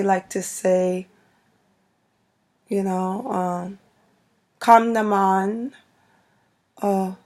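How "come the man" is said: light Guyanese-style Caribbean phrasing, drawn out; Caribbean accent. Shown as a demonstration. Vlogger quoting Caribbean parents' sayings, light Caribbean accent. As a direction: say it slowly with a Caribbean lilt. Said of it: "think of a couple Caribbean accent".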